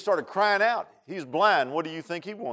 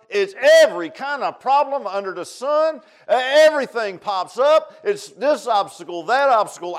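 raised, punchy preacher's delivery; forceful preaching; 5 semitones higher, 9 dB louder than usual. Real, not acted. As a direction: pile up the examples with emphasis.

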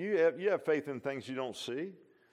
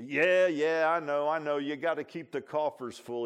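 louder, higher dismissive voice; cynical brush-off; 3 semitones higher, 7 dB louder than usual. Retold or imitated. Coworker mocking the church's money, loud dismissive put-on voice. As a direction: wave off the invitation with a sneer.

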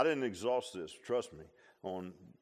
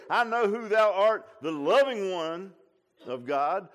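much higher and louder, mocking what they never said; mock wrong quote; 7 semitones higher, 11 dB louder than usual. Preacher mocking words the demons never said, high and loud. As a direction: throw it up high as the wrong version. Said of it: "They didn't say".

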